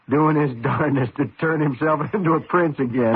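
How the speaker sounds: chuckling mid-sentence at his own joke; sheepish self-mocking laugh; laughing through it. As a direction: let laughs break into the words. Husband jokes about frog prince.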